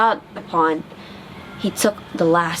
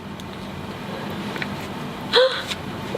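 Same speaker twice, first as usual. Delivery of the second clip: whispery crying gasp; ugly duckling sobbing after rejection; breathy sob; 7 dB quieter than usual. A narrator's reading. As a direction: gasp back tears.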